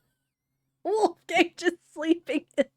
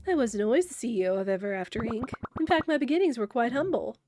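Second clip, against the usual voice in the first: slow theatrical villain menace. Acted. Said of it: "I'm sensing a villain speech coming".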